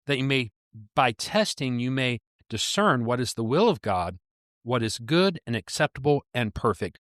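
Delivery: deliberate reading, leaning on key words; scripture reading. Acted. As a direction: read the verse out with weight and pauses. Reads scripture aloud.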